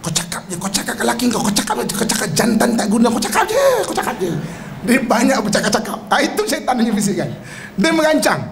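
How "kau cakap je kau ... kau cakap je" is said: imitated inner incitement. Devil goads wife waiting for late husband, mock nagging. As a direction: goad and needle, mimicking a nagging voice. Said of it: "dia akan dengar banyak perancangan".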